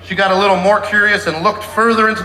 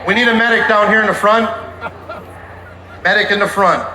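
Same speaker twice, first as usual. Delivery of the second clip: man down shout; 2 semitones higher than usual. Real, not acted. Calling for a medic in crowd.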